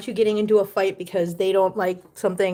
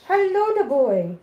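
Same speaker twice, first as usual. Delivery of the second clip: drawn-out pet-talk hello; slow, sweet hello to a beloved pet; cooing greeting; 3 semitones higher, slower than usual. Real, not acted. Owner greeting the boy, cooing.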